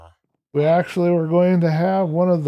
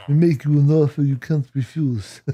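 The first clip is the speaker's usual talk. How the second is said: lightly put-on, terrible Godfather voice; a hint of a movie Godfather, badly faked; bad Godfather accent. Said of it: "very terrible and very bad Godfather accent".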